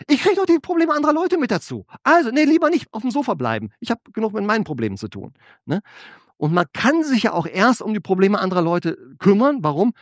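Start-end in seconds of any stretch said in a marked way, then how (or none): 0.1-5.3 high-pitched voice of a reluctant shirker; imitating someone begging off, pitched high; mock reluctance. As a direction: balk at the job in a raised pitch. Voices people avoiding leadership responsibility.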